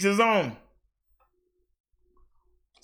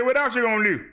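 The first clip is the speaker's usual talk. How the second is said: higher, goading mock taunt; taunting heckler; 6 semitones higher than usual. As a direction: needle him like a heckler calling out a wrestler. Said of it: "Somebody should get up and say".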